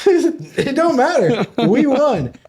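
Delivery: laughing, slow, high triumph; laughing gloat. Real, not acted. Gloating about beer pong.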